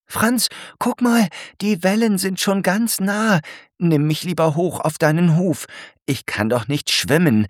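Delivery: alarmed snail calling to be lifted; excited call. Acted. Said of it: "ruft Alberta ganz aufgeregt".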